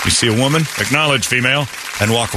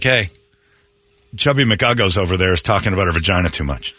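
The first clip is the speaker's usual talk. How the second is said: imitated complainer; 5 semitones lower than usual. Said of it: "he's like".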